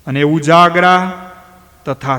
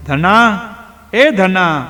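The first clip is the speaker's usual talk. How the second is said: louder, higher call across the field; calling out again; 4 semitones higher, 4 dB louder, much slower than usual. Acted. Rambhai calls again for his son in the dark field, louder. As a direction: call Dhano's name harder the second time. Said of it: "ફરી બૂમ પાડી".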